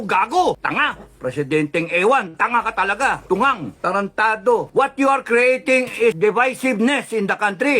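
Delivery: indignant tirade; angry scolding. Real, not acted. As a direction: hurl insults in exasperation. Berating the president with insults.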